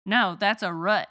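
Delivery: "root" with short oo as in foot; Midwest root. Shown as a demonstration. Host shows her Midwest way of saying "root" with short oo. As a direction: say "root" like "rut". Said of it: "what about the word root?".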